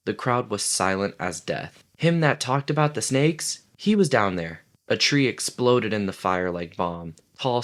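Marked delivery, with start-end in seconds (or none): 2.0-4.6 gasping. Acted. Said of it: "gasping for breath".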